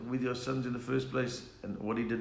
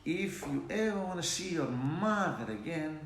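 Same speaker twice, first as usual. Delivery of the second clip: threatening Italian mobster accent; Italian mafia accent; 4 dB quieter than usual. Shown as a demonstration. Mobster warning someone about his mother, Italian mafia accent. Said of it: "Italian mafia accent".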